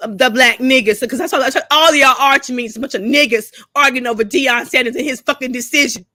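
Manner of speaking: fed up and shouting it at the whole community; angry outburst. Real, not acted. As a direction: call them out hard, with rising anger.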